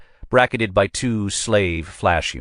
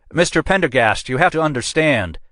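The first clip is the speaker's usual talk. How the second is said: higher, anxious pleading captain; 10 semitones higher than usual. A narrator's reading. Captain pleads with Pendergast to stop the call, higher. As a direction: try to head him off. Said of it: "struggled to keep up".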